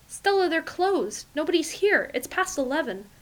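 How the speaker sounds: pleading. A narrator's reading. Pleading excuse to angry lover.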